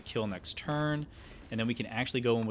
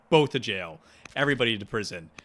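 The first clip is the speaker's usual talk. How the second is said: commanding shout; 6 dB louder, faster than usual. Pretend. Sentencing captives as ruthless king.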